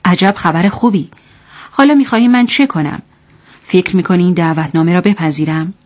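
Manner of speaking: understated mockery; lightly scornful, sarcastic retort; mocking. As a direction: say it with a touch of derision. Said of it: "با تمسخر گفت".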